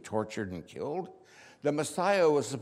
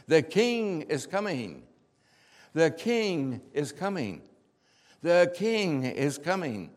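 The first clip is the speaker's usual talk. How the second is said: slow, raised, louder proclaiming call; crowd's shouted acclaim; 4 semitones higher, 6 dB louder, slower than usual. Acted. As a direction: call it out like a cheering crowd, drawing out each phrase. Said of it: "the shouting".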